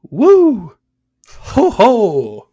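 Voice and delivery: high, loud whooping in a hammed-up French accent; terrible French accent. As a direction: whoop like an ecstatic French commentator, faking the accent. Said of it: "my terrible French accent".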